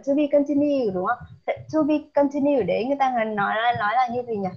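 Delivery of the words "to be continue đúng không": lively prompt. Shown as a demonstration. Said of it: "Trong cuối phim chúng ta có cái đoạn".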